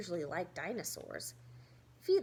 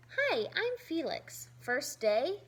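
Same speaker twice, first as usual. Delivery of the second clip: put-on friendly kid voice; 5 semitones higher, 4 dB louder than usual. Greeting new kid.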